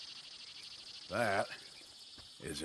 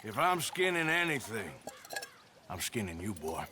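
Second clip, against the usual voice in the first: menacing threat; 5 semitones lower than usual. Acted. Threat to indebted man.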